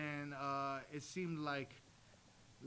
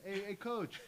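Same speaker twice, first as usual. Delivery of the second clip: imitated tattling call; 8 semitones higher than usual. Wrestler calls coach over about a kid, tattling. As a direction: imitate someone hailing the coach to tell on a kid.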